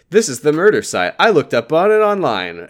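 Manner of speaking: lightly imitated drunk line read; mock drunk. Drunk Lori announcing the murder site she found, mock tipsy. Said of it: "Lori's supposed to be drunk".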